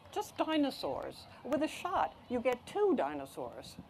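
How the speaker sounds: high start, easing down to a matter-of-fact finish; a hint of a singsong nurse; lightly voiced nurse. Nurse offering dinosaurs to a boy, lightly singsong.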